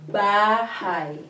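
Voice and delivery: bahay said with a clear ba and a diphthong ending; bahay in two syllables, ba and hay, ay as in eye; Filipino word bahay. Shown as a demonstration. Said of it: "the word".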